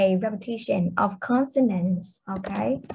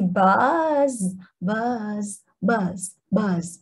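buzzing like a bee; much slower than usual. Shown as a demonstration. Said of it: "it sounds like a bee".

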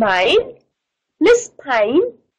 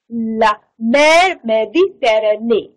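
slow model reading; 4 semitones lower than usual. Shown as a demonstration.

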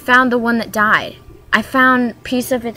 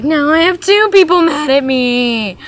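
Voldemort quote; 8 semitones higher, 4 dB louder than usual. Retold or imitated. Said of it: "and he's just like".

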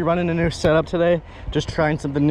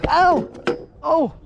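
high, drawn-out ows; overacted injured whining; hammed-up pain; 9 semitones higher, slower than usual. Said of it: "You gotta complain and everything".

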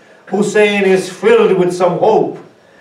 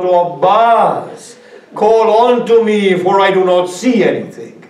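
crying out; 4 semitones higher than usual. Acted. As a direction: call desperately for a lost brother. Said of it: "Hussein cries out".

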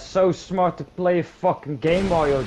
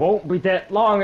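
higher, louder mocking parrot of his friend's words; mocking echo; 5 semitones higher, 6 dB louder than usual. Mocking his friend's excuse, sneering echo. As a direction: throw his own words back at him, sneering. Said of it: "It was twenty-two minutes fucking fifty".

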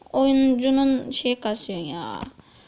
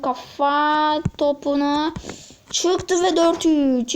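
screaming football commentator; 4 semitones higher, slower than usual. Pretend. Calls own goal like commentator.

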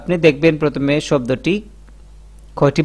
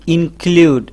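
"ইনক্লুড" slowly, in and klud apart; separated syllables; 3 semitones higher, 3 dB louder, much slower than usual. Shown as a demonstration. Teacher showing how the word divides, separated syllables. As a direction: say "ইনক্লুড" slowly in two parts. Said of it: "আলাদা করছি সেটাও দেখে নেই".

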